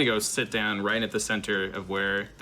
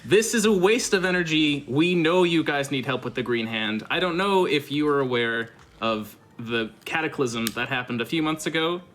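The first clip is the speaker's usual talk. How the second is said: high, loud shout over the fighting; yelling; 7 semitones higher, 6 dB louder than usual. Acted. Warrior yells at the guards to stop the battle. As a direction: bellow to call off the battle. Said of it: "I yell".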